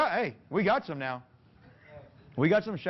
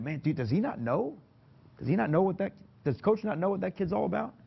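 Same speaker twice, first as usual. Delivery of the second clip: players' doubting thoughts; 6 semitones higher than usual. Retold or imitated. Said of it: "they'll either think that".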